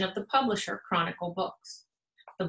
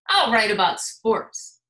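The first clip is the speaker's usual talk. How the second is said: louder; 6 dB louder than usual. Acted. Basketball pencil's sporty line.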